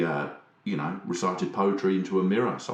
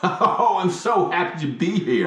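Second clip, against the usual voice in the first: laughing; 7 semitones higher than usual. Pretend. Mock podcast intro, laughing.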